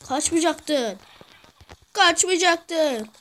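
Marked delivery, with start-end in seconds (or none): 1.9-3.1 slow, stretched-out reproach; drawn out. Shown as a demonstration. Gamer scolding a fleeing teammate, slow and drawn out. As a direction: drag every syllable of Kaçmayacaktın out slowly. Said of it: "repeated slower".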